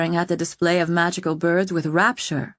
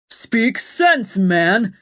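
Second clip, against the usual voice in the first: sharp, louder royal rebuke; roaring king; 4 semitones higher, 4 dB louder, much slower than usual. A narrator's reading. King to his panicked captain, loud roar. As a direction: bark it down at him, impatient. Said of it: "the king roared".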